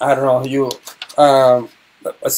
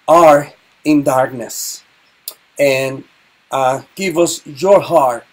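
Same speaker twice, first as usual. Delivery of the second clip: slow, earnest prayer voice; slower than usual. Real, not acted. Teacher praying for deaf people, slow and earnest. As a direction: pray it slowly and reverently.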